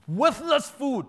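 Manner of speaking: high, loud mock sneer of worthless food; hammed-up grumbling voice; complaining Israelites. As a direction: scoff at it like ungrateful grumblers. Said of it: "It says".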